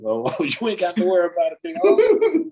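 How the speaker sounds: rising to a high mocking call; sarcastic reassurance; mock reassuring. Driver talking to the speeding truck, mock cheerful call. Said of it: "I'm like".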